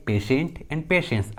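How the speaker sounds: "patient" and "patience" with sh in the middle; sh sound for T. Shown as a demonstration. Teacher showing that T sounds as sh in "patient and patience". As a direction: say "patient and patience" as pay-shent, pay-shens. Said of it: "श आ रहा है, श".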